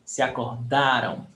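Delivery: "acordaram" stressed on the "da". Shown as a demonstration. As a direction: land on DA in "acordaram". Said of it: "Stress syllable, da".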